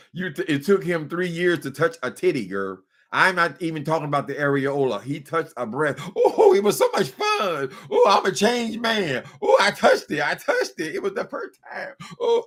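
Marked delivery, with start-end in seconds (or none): 6.2-12.0 high-pitched, swooping man's voice, octaves above his range. A speaker acts out a man she is telling a listener about: imitating a man's high voice. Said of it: "Drop the octaves in your voice".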